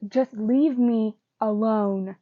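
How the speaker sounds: loud, slow angry shout; furious yell. Acted. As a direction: shout to be left alone. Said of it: "Nick looks furious and yells".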